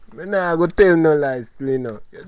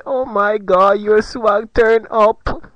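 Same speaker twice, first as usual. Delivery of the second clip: put-on swooning girls; 4 semitones higher, 5 dB louder, slower than usual.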